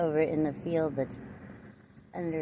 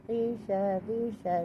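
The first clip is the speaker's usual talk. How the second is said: high-pitched imitation of a name being called; imitated calling; 5 semitones higher, slower than usual. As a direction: mimic them calling out, higher than usual. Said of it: "that's what they call me".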